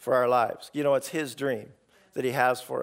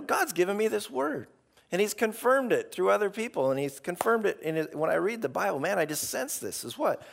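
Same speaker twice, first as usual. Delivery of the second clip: confident; 4 semitones higher than usual. Retold or imitated. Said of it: "You gotta be confident".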